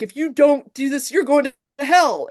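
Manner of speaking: hammed-up hellfire warning; mock threatening man. Cole threatening Christine with hell, mock high. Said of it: "he writes back like".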